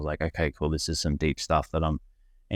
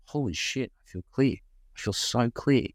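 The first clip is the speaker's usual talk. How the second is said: hushed, higher-pitched retold amazement; amazed realization; 4 semitones higher than usual. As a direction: marvel at a sudden clarity. Retells his amazed morning realization.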